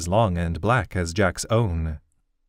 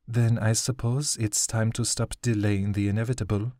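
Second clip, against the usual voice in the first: heavily; 3 semitones higher than usual. Acted. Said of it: "Jack announced heavily".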